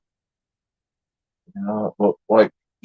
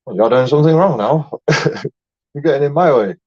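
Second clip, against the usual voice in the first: mock confrontation, raised voice; 3 semitones higher, 5 dB louder than usual.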